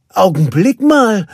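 high, loud interjection; calling out. A narrator's reading. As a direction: call out to stop them. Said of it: "rief Nanny erneut". (laut rufend)

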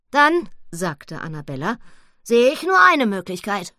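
high, loud pig voice; a piglet with an idea. Acted. Annabella speaks. (Annabella, hoch und laut)

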